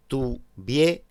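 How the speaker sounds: "Tuviéramos" in beats, "tu", "VIÉ", then "ramos"; "Tuviéramos" broken up, "ié" kept in one syllable; split into syllables. Shown as a demonstration. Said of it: "la palabra resulta ser esdrújula".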